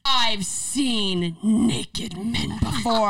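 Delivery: drawn-out dry retort of a mom; deadpan mom. Retold or imitated. Mom answering naked boyfriend.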